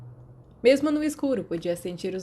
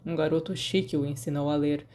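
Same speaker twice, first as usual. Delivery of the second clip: dry; 3 semitones lower than usual. Acted. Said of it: "respondeu secamente".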